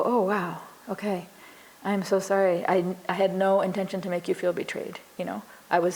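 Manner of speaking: calm, honest, unhurried sorry; mean every word, gently; sincere apology. Shown as a demonstration. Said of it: "that feels so honest".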